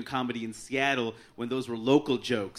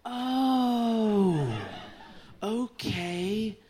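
unimpressed stranger; 6 semitones higher, much slower than usual. Retold or imitated. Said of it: "then they'll go".

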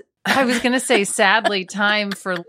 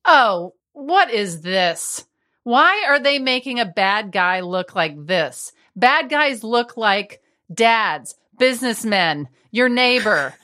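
exasperated mom; 3 semitones higher than usual. Retold or imitated. Mom objecting to a scary TV villain, imitated exasperation. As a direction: imitate a mother objecting, drawing out each point.

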